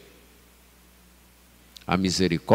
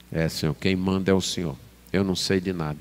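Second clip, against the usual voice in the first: softer, lower, submissive prayer; humble confession; 5 semitones lower, 6 dB quieter, faster than usual. Acted. Preacher voices a believer yielding to the Lord, humble and subdued. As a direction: own up to God, subdued and low.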